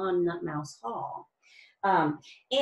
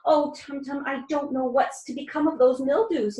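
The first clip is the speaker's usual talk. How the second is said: forlorn; 4 semitones higher, 3 dB louder than usual. Acted. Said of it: "Nutmeg said forlornly".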